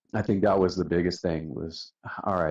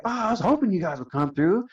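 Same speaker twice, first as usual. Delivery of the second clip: much higher, eager and thrilled; delighted; 12 semitones higher than usual. Retold or imitated. The older tech thrilled the crew showed up, high and eager. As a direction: gush it like a fan finally meeting them.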